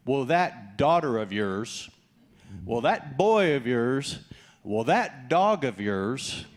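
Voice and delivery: slow, disdainful "that dog of yours"; a mild, slow mock disdain; disowning sneer. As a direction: sneer it like an annoyed spouse. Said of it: "when we're upset with somebody".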